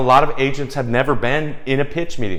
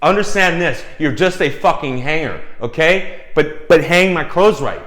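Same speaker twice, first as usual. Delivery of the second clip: angry designer; 4 semitones higher, 4 dB louder than usual. Retold or imitated. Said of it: "designer's like".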